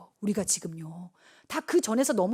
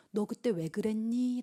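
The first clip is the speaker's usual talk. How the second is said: soft, slow, grave question; God's questioning; 8 dB quieter, slower than usual. Acted. God questioning a person at the judgment seat, hushed and slow. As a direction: ask it slowly, voice lowered. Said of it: "라고 물으신다라는 거예요".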